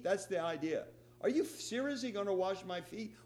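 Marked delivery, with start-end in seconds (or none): 1.2-3.1 mildly indignant question; a touch of indignation. Retold or imitated. Peter questioning Jesus, mildly indignant. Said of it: "With a little tone of indignation".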